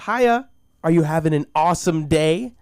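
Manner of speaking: a hint of chirpy fast-food cashier; lightly voiced counter girl. Voicing the perky counter girl.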